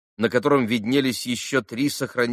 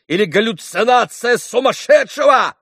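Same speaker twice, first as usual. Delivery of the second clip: frantic outcry against slander; shouting; 8 semitones higher, 7 dB louder than usual. A narrator's reading. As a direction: hurl the denials at them. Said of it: "продолжал кричать Митя".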